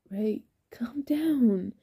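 slow, breathy hush; slow right down to settle a panicking friend; calming. Acted. Norman tries to settle frantic Ray, calming.

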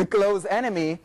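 ordinary talk, nothing marked

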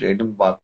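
"एडनबर्ग" with the final consonants softened away; silent ending. Shown as a demonstration. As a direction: say "एडनबर्ग" as Edin-baa, no hard g. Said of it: "लेकिन वो silent होता है ना".

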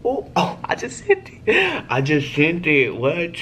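high, excited burst; excited squeal. Real, not acted. To viewers after sending the text, excitedly high. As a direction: shriek it out in disbelief.

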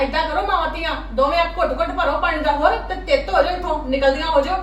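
loud angry dismissal; throwing them out. Acted. Mother-in-law ordering mother and daughter out, loud.

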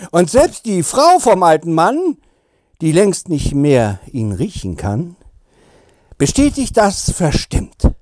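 measured comic verse reading with swinging pitch; poem recital. Acted. Kalle reads fans a cheeky Advent poem, poem recital. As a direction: recite the rhyme with playful, deliberate pauses.

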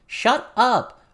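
high, angry shout; loud, furious outburst. A narrator's reading. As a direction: shout it to silence a heckler. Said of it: "Lucy shouted".

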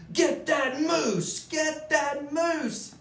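loud, high, slow hunter's cry; hunter calling out. Acted. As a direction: call it out across the lake. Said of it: "Thidwick heard a voice call".

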